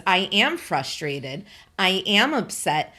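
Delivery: firm, deliberate weight on "am"; stress on AM. Acted. Refusing to apologise to the company, insistent stress on "am". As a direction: lean on "am" in each sentence to insist.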